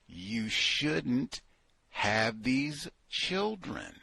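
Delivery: slow, soft, weighing each word; slow emphatic advice. Real, not acted. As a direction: spell it out slowly and quietly. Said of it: "slowed emphatic advice".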